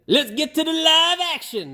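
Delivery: put-on mangle a hick accent for a laugh; failed Cletus accent. Joking to viewers, a botched hick accent. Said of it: "That's not his accent".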